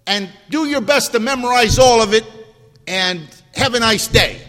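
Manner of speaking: lightly hammed Paul brushing them off; mocking imagined Paul. Preacher mocking a careless reading of Paul. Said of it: "He didn't say".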